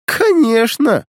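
slow, high, loud mocking drawl. A narrator's reading. Alina mocks his promise to tell, slow drawl. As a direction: stretch it out in mockery. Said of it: "насмешливо протянула Алина".

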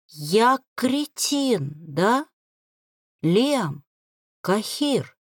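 husky, slow broken groan; hoarse moan. Acted. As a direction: rasp it out slowly, defeated. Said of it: "Сипло простонал".

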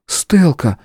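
a short warning call; warning exclamation. Acted. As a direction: cut her off in warning. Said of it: "предостерегающе воскликнула княжна". (предостерегающий возглас)

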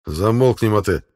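loud growled order. Acted. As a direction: snap it like a gruff warrior. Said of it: "рыкнул старший воин".

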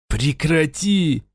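choked, strangled plea, slowed; strained croak. Acted. Raul begs the voice in his head to stop, choked. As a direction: squeeze it out through a tight throat. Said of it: "сдавленно просипел он".

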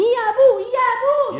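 high, loud cry for father; calling out. Acted. Girl calling her father to escape the suitor, loud. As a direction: shout for help from father.

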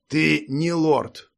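frowning, curt hunter interruption; cutting retort. A narrator's reading. Hunter cutting off the false lord, sharp. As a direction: cut him off sharply. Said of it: "оборвал Хантер, нахмурившись".

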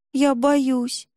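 put-on scared little girl whining; whiny tattling little sibling. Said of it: "захныкала Танечка".

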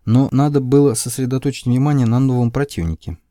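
ordinary delivery

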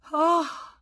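very high, sharp cry; bitter irony laced with pain; ironic and pained. Acted. Wife reacting to his excuse, ironic and pained. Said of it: "con un tono di voce singolare ... ironia e dolore".

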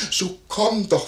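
high, pleading imitation; imitated lady calling. Innkeeper mimics the lady calling her maid, high-pitched urging.

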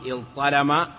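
اضطلم as iẓ-ṭalama, ẓ then ṭ; no assimilation. Shown as a demonstration. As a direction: keep the two heavy consonants of اضطلم separate. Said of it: "ترك الإدغام".

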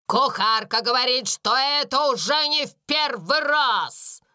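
indignant mistress shouting at a servant; angry scolding cry. A narrator's reading. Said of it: "кричала она".

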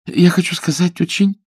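high, halting stammer; girl humouring a madman, nervously; Billy, frightened. A narrator's reading. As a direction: trip over the words in fear. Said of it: "поправилась она".

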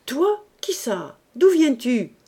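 loud, high opening then insistent questions; rough, impatient challenge; brusque interrogation. Acted. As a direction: fire questions at an unwelcome child. Gruff man interrogates child at door.

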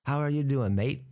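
amateur attempt at an Australian accent; bad Australian accent. Shown as a demonstration. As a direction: greet someone in mock Australian. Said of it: "That's a bad Australian accent".

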